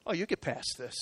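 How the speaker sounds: very soft, low, offhand comfort; reassurance. Retold or imitated. Friend to struggling pastor in his office, retold soft reassurance. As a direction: quietly retell a friend's reassurance. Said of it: "then he said this to me".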